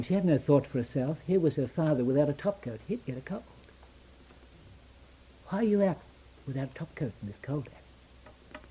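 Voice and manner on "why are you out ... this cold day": weak voice. Retold or imitated. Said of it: "In a weak voice".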